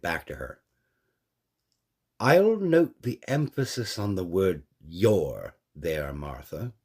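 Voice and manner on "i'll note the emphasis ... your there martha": slow, level and controlled; measured, mildly pointed reply; even, measured. A narrator's reading. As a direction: keep it calm and steady. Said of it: "he said evenly".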